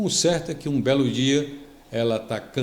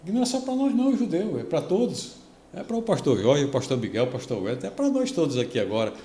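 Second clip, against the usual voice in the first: much higher, eager proclaiming, getting faster; excited announcement; 6 semitones higher, faster than usual. Retold or imitated. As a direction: tell everyone the good news with joy. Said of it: "chegou em Jerusalém e disse".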